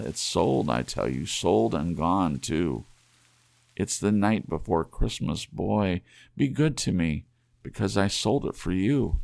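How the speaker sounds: put-on a young wife begging her husband not to be angry; pleading young wife. Della pleads.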